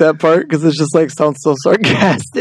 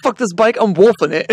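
higher-pitched fed-up werewolf act; mock outburst; 4 semitones higher than usual. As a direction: storm off in pretend frustration. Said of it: "he's like".

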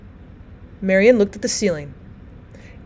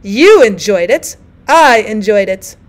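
loud bickering; 6 dB louder, slower than usual. Acted. Old women quarrel.

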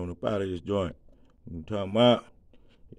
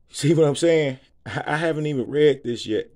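laughing; 3 semitones higher, 7 dB louder than usual. Real, not acted. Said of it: "You can probably hear it in my voice".

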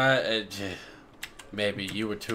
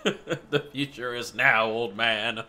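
laughing taunt; slower than usual. Pretend. Mock taunt back, laughing.

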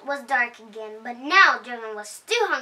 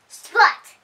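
higher, louder splat, bursting out; splat sound word; 8 semitones higher, 9 dB louder than usual. A narrator's reading. Telling kids the pumpkin lands on Dragon, loud excited splat. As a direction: make the splat pop out loud.

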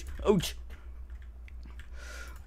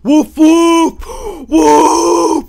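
high, loud yapping barks; loud dog barking; 14 semitones higher, 17 dB louder, slower than usual. Acted. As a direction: bark like an angry little dog.

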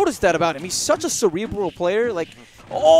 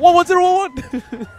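slow, higher beeping robot reading digits; robot saying binary; 10 semitones higher, 5 dB louder, slower than usual. Pretend. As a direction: say the numbers like a computer. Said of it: "Can we just call it binary?".

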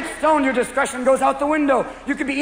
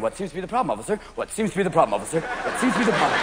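rehearsed line; 5 semitones lower, 4 dB quieter, faster than usual. Acted. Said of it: "you start rehearsing".

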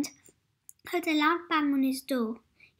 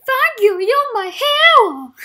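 much higher, louder, slow adoring cry; gushing thanks; 9 semitones higher, 15 dB louder than usual. Acted. Little Miss Safe thanking her rescuer, gushing. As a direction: gush with relief and admiration.

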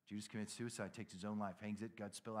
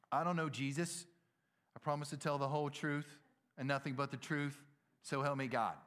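mock-solemn oath, pitched up; sworn denial; 3 semitones higher, 3 dB louder than usual. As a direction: swear it emphatically, phrase by phrase. Acting Peter's denial under oath.

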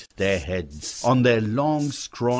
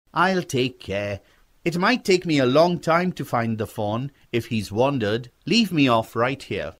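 lightly voiced boy; a hint of a boy insisting he'll be fine; reassuring young boy; 4 semitones higher than usual. Boy asks rider to leave him, lightly persuasive.

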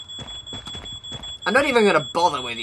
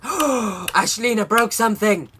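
gasp, then blurt it out slowly; stunned accusation; shocked gasp; 5 semitones higher, 4 dB louder, slower than usual. Real, not acted. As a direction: caught off guard. Gasping at a broken object.

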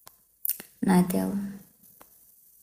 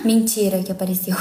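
surprised gasp. Real, not acted. Gasp at calculator appearing.

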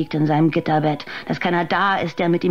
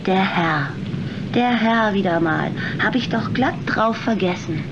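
mocking sarcasm; 5 semitones higher than usual. Waitress mocks the nun's piety.

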